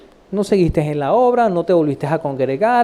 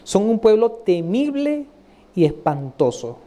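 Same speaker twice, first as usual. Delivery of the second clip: scripture reading. Acted. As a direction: recite deliberately, stretching the fearsome adjectives. Reads scripture aloud.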